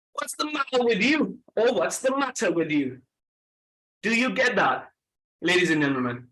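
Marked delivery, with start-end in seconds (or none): 0.1-1.4 higher British "What's the matter with you?"; British accent. Shown as a demonstration. Trainer offers class a first British example, British accent. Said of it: "sound like a British person". 1.7-3.0 British accent, second variety. Shown as a demonstration. Trainer offers class an alternative British reading, British accent. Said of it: "sound like a British person".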